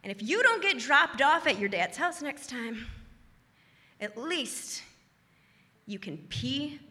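softly, dropping almost to a murmur; quiet self-advice. Retold or imitated. To her reflection in the mirror, quiet and wry. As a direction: quietly tell yourself a wry lesson. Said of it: "And I say".

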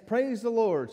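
high, loud happy shout; joyful praise while clapping; excited praise. Retold or imitated. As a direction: jump and clap as you say it. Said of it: "she said".

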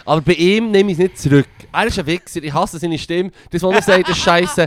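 heated comic defiance; defiant rant. Real, not acted. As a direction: dig in and rant emphatically. Ranting, refuses to take it back.

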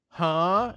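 first step of a comic chorus; puzzled, hammed-up "huh?"; questioning huh. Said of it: "maybe like, one will say".

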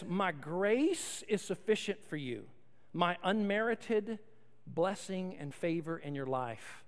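soft, slow, low reading of God's words; gentle reassurance. Acted. Pastor reading God's reply to the congregation, soft and slow. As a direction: lay it down gently, like a promise.

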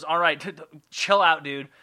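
lightly acted huffy back-talk; mildly miffed, rattled-off retort; sassy God. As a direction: play a wounded, dismissive God. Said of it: "really sassy talking, talking back and forth".

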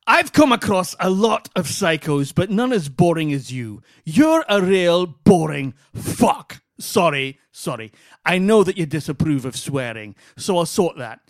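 loosely attempted Scottish accent, emphatic; slow opening in a rough go at Scottish; vague Scottish accent. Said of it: "whatever accent he's doing".

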